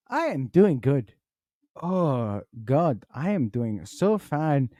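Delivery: put-on comic African accent, swooping stressed words. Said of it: "you had that voice".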